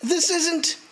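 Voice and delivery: high, horrified, breaking cry; anguished disbelief. Acted. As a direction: cry out as she dies. Mother hanged before his eyes.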